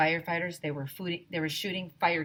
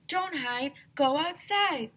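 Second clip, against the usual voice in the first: shouting; 10 semitones higher, slower than usual. A narrator's reading. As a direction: shout the rule. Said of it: "shouted Neil".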